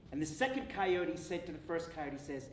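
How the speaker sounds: usual speaking voice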